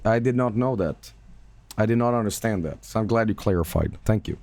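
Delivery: sarcastic. Real, not acted. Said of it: "That was sarcasm".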